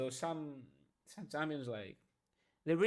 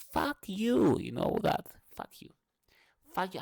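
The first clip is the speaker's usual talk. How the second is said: angry outburst; 7 semitones higher, 4 dB louder than usual. Real, not acted. Shouting back at inner voice.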